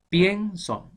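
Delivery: "pienso" punched loud and high on the E; "pienso" with a big swell on "pien"; stressed E in pienso. Shown as a demonstration. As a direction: hit the E of "pienso" hard, drawing out the first syllable. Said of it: "¿Quién suena más, la I o la E?".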